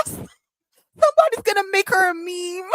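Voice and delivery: high, slow, through real laughter; helpless amused laughing delivery. Real, not acted. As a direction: crack up while getting the words out. Cracking up at crying fan.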